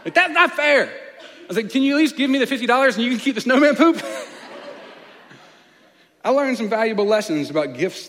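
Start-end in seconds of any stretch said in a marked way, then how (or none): 0.1-0.9 high, loud laughing mock tantrum; loud high childish complaint through a laugh; kid tantrum. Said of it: "threw another ten-year-old tantrum". 1.7-4.0 put-on kid tantrum bargain. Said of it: "threw another ten-year-old tantrum".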